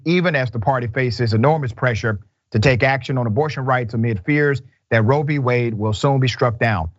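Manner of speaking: measured, even news-reader delivery. Acted. Reporting a coming Senate abortion vote, measured news read. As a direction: read the report evenly, drawing out the last phrase.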